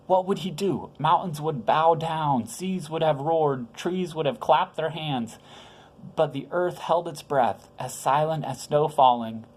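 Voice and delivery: gentle storyteller voice for little ones; story reading to children. A narrator's reading. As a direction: read it like a bedtime Bible story. Reads Christmas story to children.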